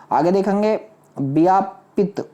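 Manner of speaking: ordinary talk, nothing marked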